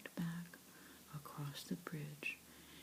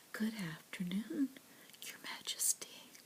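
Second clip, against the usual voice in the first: bright, a bit higher greeting; chirpy; 4 semitones higher than usual. Acted. Ice cream driver greeting Lionel, lightly chirpy. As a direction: chirp it out cheerfully. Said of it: "chirped the driver".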